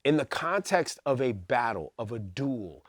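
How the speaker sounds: hushed, secretive whisper. Real, not acted. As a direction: lean in and whisper it. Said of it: "Why are you whispering at us?".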